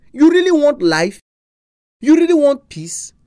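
breathy whisper; whispered question. Real, not acted. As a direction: lean in and whisper it. Intimate appeal to listeners.

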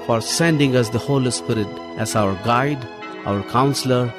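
ordinary delivery

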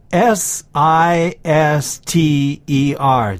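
S I S T E R said as separate letters, slowly; spelled letter by letter. Shown as a demonstration. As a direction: spell S I S T E R out one letter at a time. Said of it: "a sister".

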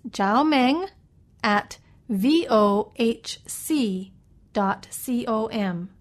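slow letter-by-letter spelling; dictating. Shown as a demonstration. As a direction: spell it out for listeners. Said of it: "let me spell that for you".

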